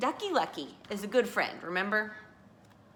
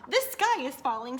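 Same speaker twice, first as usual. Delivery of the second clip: storybook alarm; 6 semitones higher, 3 dB louder than usual. A narrator's reading. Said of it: "said Henny Penny".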